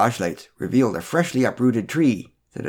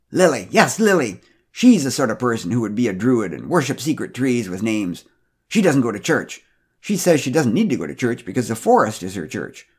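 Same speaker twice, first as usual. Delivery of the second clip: gossipy busybody; 2 semitones higher, 3 dB louder than usual. Acted. Pamela gossiping about Lily.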